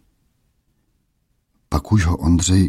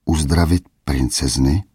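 disbelieving. Acted. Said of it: "jak by nevěřil svým uším".

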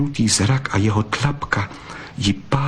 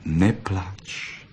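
softer, slow, tender words; 4 dB quieter, much slower than usual. Acted. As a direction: speak to her softly and tenderly. Tender fox after kissing.

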